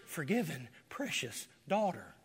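tender words of forgiveness; tender pardon. Acted. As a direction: speak it like a loving father. Forgiving blood voiced tenderly.

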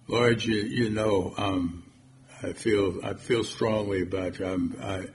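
halting, softly trailing reply; hesitant. Acted. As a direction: fumble for words, acting unsure. Acting Peter's hesitant reply to Lord.

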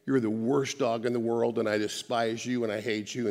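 harsh words in a sweet, loving voice. Shown as a demonstration. Preacher talking to his dog, mild loving coo. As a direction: coo the insults like to a pet. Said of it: "speak in a loving way and say".

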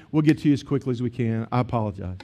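smooth it over quietly, sinking to a soft close; imagined gentle, conciliatory reply; calm apology. Acted.

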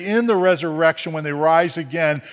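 mildly emphatic, slyly mocking quote; knowing mock quote. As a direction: imitate sceptics setting up a trick question. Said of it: "chuckle, chuckle".

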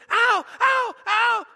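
high, loud shriek of pain on every ow; retold child's shriek. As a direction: shriek like a small boy who was just bitten. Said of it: "he shrieked".

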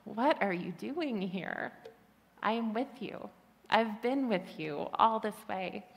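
God speaking tenderly to a weary heart; gentle whisper. Acted. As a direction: speak slowly and tenderly, like a comfort. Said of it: "to hear him whisper".

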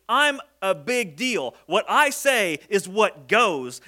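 slow, emphatic self-importance; a touch of offended authority; mildly indignant. Acted. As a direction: lay down the law word by word. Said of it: "like, indignant here".

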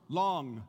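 long with the back of the tongue on the roof of the mouth, ending in a clear ng; saying long. Shown as a demonstration. Pastor demonstrating long for the class, ng held at the back. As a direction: say long slowly, landing the final ng. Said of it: "Do it again. Say it again".

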